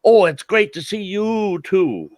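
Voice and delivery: high, drawn-out fake friendly hello; mock fake-friendly greeting. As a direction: ham up an overly chummy greeting. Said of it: "I hate that when they say".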